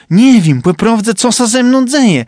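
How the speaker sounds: high, wistful character voice confessing his homesickness; homesick Trumba. A narrator's reading. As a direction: sigh out the longing for home and wife.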